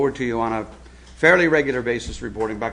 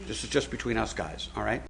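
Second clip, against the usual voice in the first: softer hushed aside after a shush; whispering a secret; 9 dB quieter than usual. Pretend. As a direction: drop even quieter, like sharing gossip.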